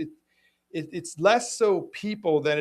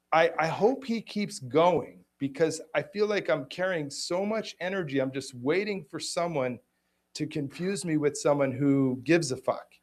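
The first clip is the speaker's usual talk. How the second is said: defiant; 2 semitones higher than usual. Retold or imitated. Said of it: "I said".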